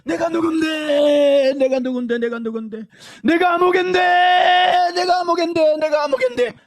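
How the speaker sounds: loud, high wailing shout fading; damned soul wailing its own name; anguished cry from hell. Retold or imitated. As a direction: cry it out in torment. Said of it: "아픔이 심한지 막 소리를 내".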